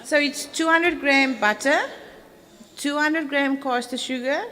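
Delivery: projecting so the back row hears. Real, not acted. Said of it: "Okay, must I repeat it?".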